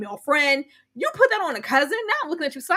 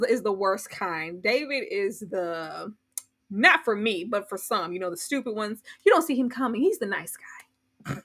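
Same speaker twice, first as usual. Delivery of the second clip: low quiet warning; 8 semitones lower, 5 dB quieter than usual. Real, not acted. Low voice describing David.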